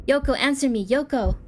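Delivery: loud, high urgent shout; dramatic panicked calling; acted desperate call. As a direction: demand an answer in alarm. Calling to unresponsive friend.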